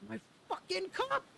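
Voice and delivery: loud, high dismayed yell; shouting in dismay. Real, not acted. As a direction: scream at the loss. Loses cup to shark.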